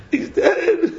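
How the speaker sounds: high laugh bursting out. Real, not acted. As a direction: crack up at the absurdity. Laughing at crying over fake death.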